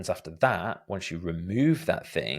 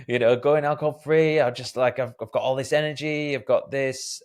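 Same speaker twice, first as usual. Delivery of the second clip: mock excitement; 5 semitones higher, 3 dB louder than usual. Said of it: "is like".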